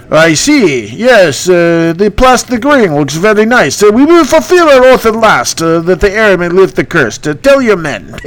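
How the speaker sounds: sarcastic phantom; Bertu voice. Acted. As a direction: ghost king humoring the hero. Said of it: "that's my impression".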